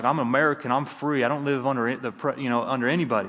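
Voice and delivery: put-on light Southern US accent. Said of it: "like, a Southern accent there".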